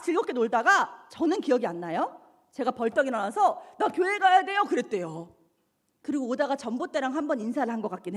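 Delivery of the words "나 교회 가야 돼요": put-on drunken outburst. Drunk, suddenly getting up to leave.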